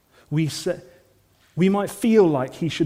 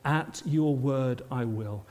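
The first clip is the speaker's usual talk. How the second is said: hushed devotion; 4 semitones lower, 8 dB quieter, slower than usual. Acted. Appeal to congregation to respond.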